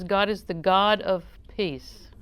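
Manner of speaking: slow, with "peace" set apart at the end; emphasis on peace. Real, not acted. Preacher quoting scripture to the congregation, emphasis on "peace". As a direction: lean on "peace" after a measured build-up. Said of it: "I like the emphasis on peace".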